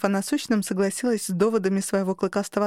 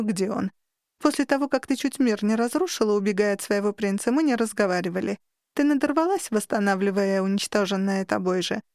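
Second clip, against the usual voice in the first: bored tone. Acted. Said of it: "скучающим тоном выдала".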